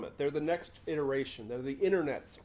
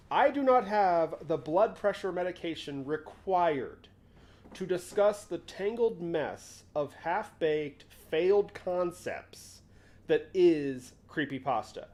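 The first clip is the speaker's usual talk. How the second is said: exasperated emphasis; 2 semitones higher, 3 dB louder, slower than usual. Real, not acted. Refusing to discuss creepypasta.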